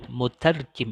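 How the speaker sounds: "mutarjim" with weight on "tar"; stress on second syllable. Shown as a demonstration. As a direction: press the "tar" in "mutarjim", then fall. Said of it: "tekankan pada yang kedua". (tekanan pada "tar" dalam "mutarjim")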